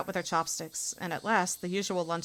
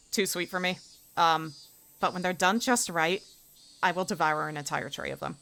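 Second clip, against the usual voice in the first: usual speaking voice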